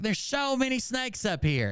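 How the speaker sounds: high, slowed mock-whiny voice; imitating a panicked sister. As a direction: act out a frantic phone call. Voicing panicked sister on phone.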